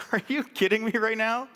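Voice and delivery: 高く大きな声で、信じられないという調子; 父の返事に呆れる驚き; incredulous disbelief. Retold or imitated. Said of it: "And I think".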